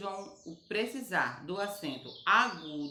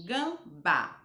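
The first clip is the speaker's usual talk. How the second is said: gambá with BA stressed and drawn out; stress on final syllable; 4 dB louder than usual. Shown as a demonstration. Teacher shows pupils the strong syllable, gambá stressed on BA. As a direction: lean on the last syllable of gambá. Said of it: "a sílaba mais forte é o ba".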